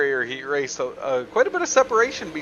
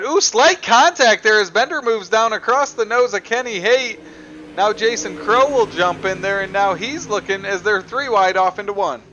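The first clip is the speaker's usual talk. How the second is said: loud excited contact call; punchy rising play-by-play; motorsport commentator; 4 semitones higher, 4 dB louder than usual. Real, not acted. Calling contact on track.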